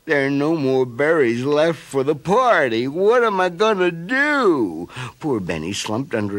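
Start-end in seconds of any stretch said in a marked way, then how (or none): 0.1-4.9 higher, louder distressed wail; distressed bear. A narrator's reading. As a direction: panic over the empty basket. Bear realizes eaten berries.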